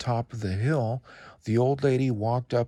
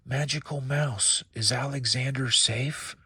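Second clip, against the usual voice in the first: trembling voice; 4 semitones higher than usual. Acted. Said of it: "The old lady's voice trembled".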